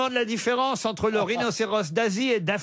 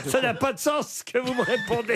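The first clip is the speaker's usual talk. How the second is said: laughing; 2 semitones higher than usual. Real, not acted. Host laughing at wrong answer.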